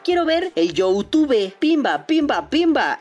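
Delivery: high, loud playful pimba; excited sound effects. Acted. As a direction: bounce out the pimbas. Imita el Chromecast con sonidos. (efectos juguetones y emocionados)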